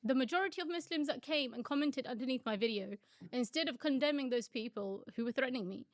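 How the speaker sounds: mildly emotional retelling. Real, not acted. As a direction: restart the line holding back tears. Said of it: "sorry if I get a bit emotional".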